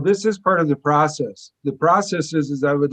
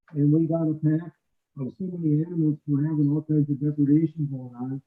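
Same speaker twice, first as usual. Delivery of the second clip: muffled. Real, not acted. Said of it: "the sound is very muffled".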